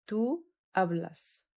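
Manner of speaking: Tú hablas again drawn out, falling at the end; slow repeat. Shown as a demonstration. Teacher repeating Tú hablas to the class, slowly. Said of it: "حرف ال H silent".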